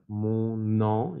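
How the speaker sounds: "Mon nom" split as "mon... non"; liaison demo. Shown as a demonstration. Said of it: "se hace la liaison".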